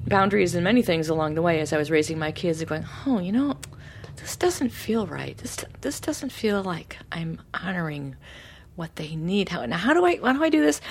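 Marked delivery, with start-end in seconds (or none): 3.0-10.8 soft unvoiced musing, slowing down; whispered inner thought. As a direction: whisper it like doubting yourself. Inner thoughts while raising kids.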